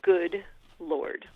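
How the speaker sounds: loud, drawn-out exclamation; acted exasperated realization; slow dawning dismay. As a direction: space each word as the mistake sinks in. Acts dawning realization, slowly.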